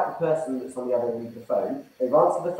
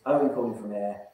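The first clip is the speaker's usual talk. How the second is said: short separate statements, dropping softer and lower; confident, assertive pitch in bullet-point phrases; 4 semitones lower, 6 dB quieter than usual. Shown as a demonstration. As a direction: deliver each phrase as its own calm point. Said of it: "It's almost like bullet points".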